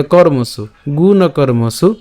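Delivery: "কর্মসু" as kor-mosu, r joined to the first syllable; pronunciation demo. Shown as a demonstration. Teacher explaining the reph, "কর্মসু" modelled as kor-mosu. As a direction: say "গুণ কর্মসু" with r closing "kor". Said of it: "রেফটাকে আমরা কয়ের সাথে উচ্চারণ করব".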